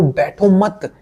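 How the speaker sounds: high, quick urging; urgent plea. Real, not acted. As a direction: push them to get up. Urging viewer not to sit idle.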